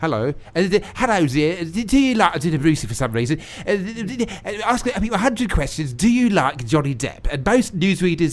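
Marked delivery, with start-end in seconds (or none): 0.0-7.3 Bruce Forsyth impression. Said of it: "I don't know why I'm doing Brucey".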